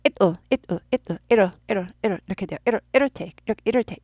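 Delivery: "it, 어" quickly running together into "it'll"; sped up. Shown as a demonstration. Teacher showing what happens at speed, sped up. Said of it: "빨리 하다 보면".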